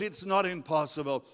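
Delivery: plain, firm contradiction; God's firm answer. Acted. God answers the doubter, firm correction. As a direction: counter the doubt at normal pitch. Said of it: "But God says".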